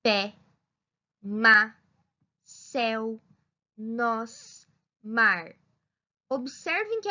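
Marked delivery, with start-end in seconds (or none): 0.0-5.5 each word said short, firm and punched; demonstrating stressed monosyllables to students; strong stressed pronunciation. Shown as a demonstration. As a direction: give every monosyllable a strong stressed hit. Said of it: "observem a pronúncia das palavras a seguir".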